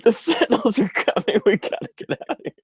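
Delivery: high, fast mock urgent warning; hammed-up alarm; urgent escape warning. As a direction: rush them out. Acting Tank and Dozer.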